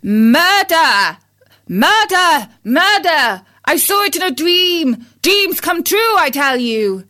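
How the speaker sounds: high frantic alarm; a rooster crying out from his nightmare; crying murder. Acted. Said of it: "called out".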